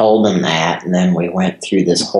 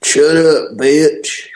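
angry; 7 semitones higher, 4 dB louder, slower than usual. Real, not acted. Yelling at recorded message.

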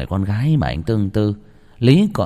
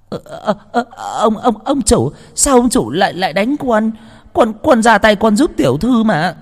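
much higher, stuttering, tearful whine; stammering fright; 12 semitones higher, 4 dB louder than usual. A narrator's reading. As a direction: stammer in shock after the slap. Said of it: "giọng lắp bắp". (giọng lắp bắp, hoảng hốt, cao vút)

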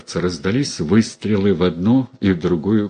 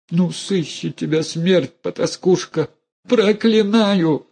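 cursing mother; 10 semitones higher than usual. A narrator's reading. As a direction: lay the curse on her. Mother cursing her daughter. (высокое протяжное проклятие)

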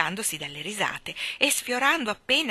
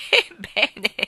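louder, drawn-out surprised exclamation; 3 semitones higher, 8 dB louder than usual. Acted. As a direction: react in delighted surprise. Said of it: "disse mister Wigg molto sorpreso".

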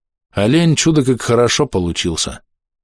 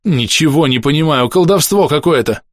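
high-pitched whine; скулёж; 6 semitones higher than usual. A narrator's reading. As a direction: whine in bewilderment. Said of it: "заскулил санитар". (растерянно скулить высоким голосом)

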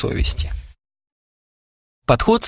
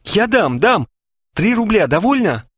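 high eager relief; glad; 10 semitones higher than usual. A narrator's reading. Vitya offers money to friends, high and eager. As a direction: jump at it, relieved. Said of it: "обрадовался Витя".

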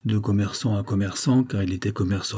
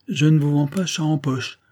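street hawker pitch; 5 semitones higher than usual. Acted. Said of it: "du ton d'un camelot qui fait son boniment".

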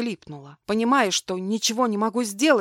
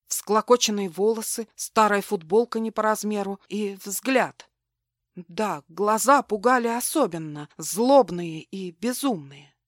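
plain reading voice

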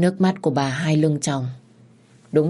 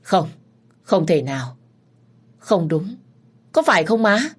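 shocked disbelief; 2 semitones higher than usual. Acted. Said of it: "hết sức kinh ngạc".

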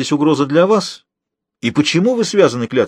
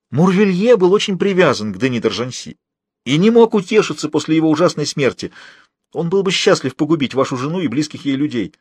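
higher-pitched, earnest informer; agitated prisoner; 5 semitones higher than usual. Acted. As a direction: confess it in a raised anxious voice. (высокий голос взволнованного узника)

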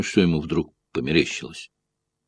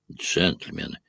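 voice cracking; 4 semitones lower, 7 dB quieter, slower than usual. A narrator's reading. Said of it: "послышался его срывающийся голос".

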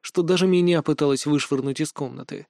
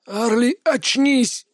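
urgent call; 7 semitones higher, much slower than usual. A narrator's reading. Calling a girl out of trance.

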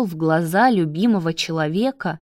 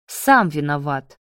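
ordinary talk, nothing marked

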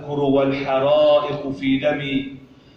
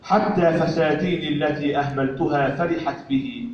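poetry recitation. Acted. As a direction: recite the poem line by line with pauses. (إلقاء شعري متأنٍّ)

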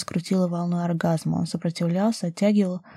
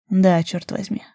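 ordinary delivery

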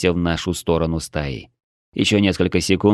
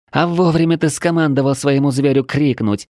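raised, higher-pitched croak; hoarse rasp; 7 semitones higher, 3 dB louder than usual. A narrator's reading. Fighter croaks to her comrade after the battle, hoarse rasp. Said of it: "прохрипела она".

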